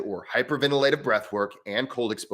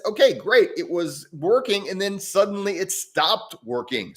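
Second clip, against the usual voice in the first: raised-pitch frustrated client voice; voicing the client; 7 semitones higher than usual. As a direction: play the puzzled client complaining. Client Dave's complaint, quoted.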